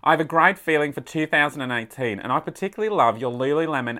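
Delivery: letter read in a put-on Australian accent; playful Aussie accent. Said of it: "read this in my Australian accent".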